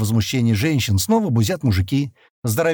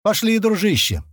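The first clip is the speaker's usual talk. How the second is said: higher-pitched friendly call; smiling invitation; 9 semitones higher than usual. A narrator's reading. Redhead inviting the bespectacled man along, smiling. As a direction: say it through a smile, pitched up. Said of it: "заулыбался Рыжий".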